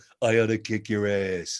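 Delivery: punchy, emotional action hero voice, words kept short. Coaching another speaker on how the character says the line, Duke voice. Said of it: "Just go".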